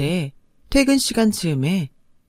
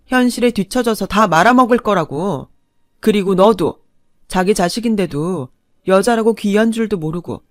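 cold defiant anger. Acted. Wife threatening her ex-husband's family, defiant anger. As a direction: keep pushing the threat. Narrator continues angry tirade.

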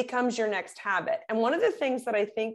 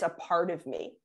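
softened phrase; 5 semitones lower, 5 dB quieter than usual. Shown as a demonstration.

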